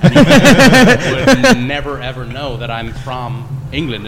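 slow London accent demo; English accent. Shown as a demonstration. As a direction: lay the London accent on, drawn out. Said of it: "if I start talking like this".

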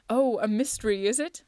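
eager, acted enthusiasm; excited cry. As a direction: pounce on the mystery with relish. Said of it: "I cried, rubbing my hands".

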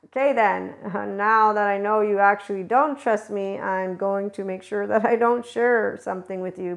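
startled first, then slightly guarded; mock surprise turning wary; surprised, then wary. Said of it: "it's like".

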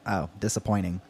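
low, soft let-down; sighed disappointment. A narrator's reading. Travis hearing Otto has no goats, sighing disappointment. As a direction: sigh it out quietly, a little deflated. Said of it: "Travis sighed".

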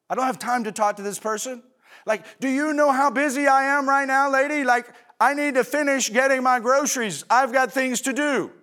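mock annoyed rant at a lady in the store; impatient brush-off. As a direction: play a hurried shopper who can't be bothered. Imagined impatient shopper brushing off someone.

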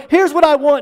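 pushy, demanding tone. Acted. People demanding things from Jesus.

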